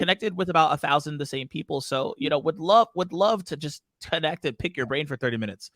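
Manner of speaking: lightly put-on cheesy salesperson reading a template; send-up of a generic sales message; mocking message voice. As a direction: parody a cold networking pitch in a lilting voice. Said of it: "read this in that voice".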